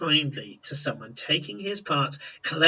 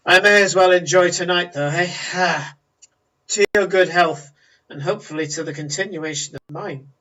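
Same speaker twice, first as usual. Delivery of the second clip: a rueful, resigned toast; toasting her own survival, half-joking; wry toast; 3 semitones higher, 6 dB louder than usual. Acted. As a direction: raise the glass with dry resignation. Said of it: "And she goes".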